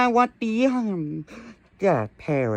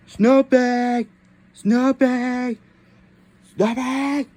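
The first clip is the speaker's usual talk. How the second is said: calling out; 6 semitones higher, slower than usual. Acted. Calling out to Snoopy.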